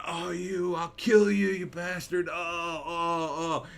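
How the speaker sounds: high, loud mock pained yelling; hammed-up fury of a guy just kicked in the nuts; retelling a prank victim's howl, high and loud; mock screaming. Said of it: "like, screaming".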